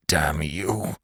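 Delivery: whispered, bitter curse; muttered curse. A narrator's reading. Captive agent cursing his captor, whispered curse. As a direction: spit it out under your breath. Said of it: "the American muttered".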